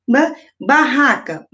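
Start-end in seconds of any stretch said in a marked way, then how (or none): none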